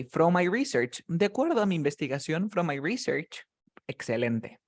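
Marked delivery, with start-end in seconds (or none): 0.0-1.0 "From my research" with RE-search stressed at the front; "research" as a noun, weight on RE. Shown as a demonstration. 2.5-3.4 "from my research" with RE-search stressed at the front; "research" as a noun, weight on RE. Shown as a demonstration.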